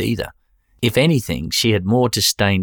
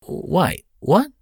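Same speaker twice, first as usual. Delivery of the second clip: sharp, much higher disbelieving yelp; shocked; 11 semitones higher than usual. Acted. Jason hearing his wallet was stolen, shocked and higher. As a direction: caught completely off guard, higher.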